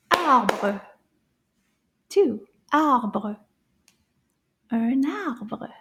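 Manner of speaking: ARBRE beaten out by syllable; counted syllables. Shown as a demonstration. Teacher counting syllables in "arbre", beat by beat. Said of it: "how many syllables would this word have".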